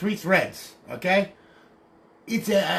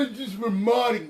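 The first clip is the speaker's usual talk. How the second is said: mocking "modding"; 6 semitones higher than usual. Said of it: "people say".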